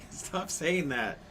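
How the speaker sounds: high, drawn-out mock scolding; escalating mom. Horrified mom to her yelling daughter, escalating. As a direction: imitate an exasperated mother, slowly. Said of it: "was escalating too".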